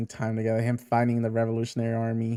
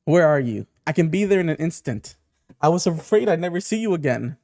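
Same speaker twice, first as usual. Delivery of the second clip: higher, urgent pleading; acted alarm; 4 semitones higher, 4 dB louder than usual. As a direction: call out anxiously to someone feared lost. Urgent reply to missing Ginny.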